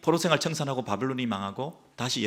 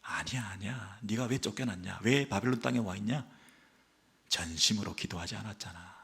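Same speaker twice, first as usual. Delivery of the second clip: soft God's voice; 3 semitones lower, 7 dB quieter than usual. Acted. God voiced answering the people.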